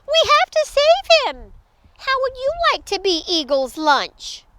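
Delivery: high, loud little leader; small creature's indignant appeal; urging. Acted. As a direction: plead urgently with the crowd. Pip rallies the crowd.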